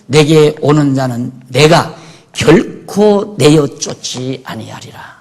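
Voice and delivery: slow, emphatic Bible reading; deliberate pulpit reading with weighted key words; scripture reading. Acted. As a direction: read the verse out to the congregation, measured. Reads scripture verse to congregation.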